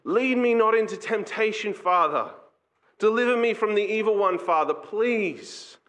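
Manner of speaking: earnest acted plea of a needy child. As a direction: plead like a dependent child, drawing out the last word. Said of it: "needy, dependent child coming to their father".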